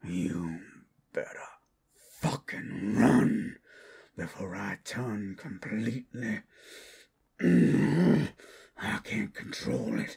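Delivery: desperate shout. Acted. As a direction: yell the warning as you lose control. Warns captor as transformation starts.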